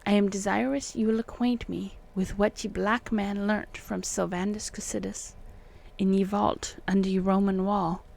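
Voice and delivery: put-on deliberate, emphatic old-fashioned letter voice; declaimed antique correspondence, lightly put on; archaic letter reading. A narrator's reading. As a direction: read the old letter exactly as spelt, quaint spellings and all. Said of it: "me trying to read exactly as it is written".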